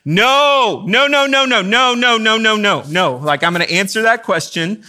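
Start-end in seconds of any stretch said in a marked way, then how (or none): 0.1-3.1 high, loud drawn-out "No", then rapid-fire repeats; hammed-up horrified sitcom refusal, easing off at the end; Michael Scott's emphatic no. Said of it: "Michael Scott reacts in The Office".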